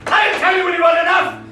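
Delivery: very high, loud, stress on I'll; furious scream. Acted. Man attacking boys, furious scream. Repeated line.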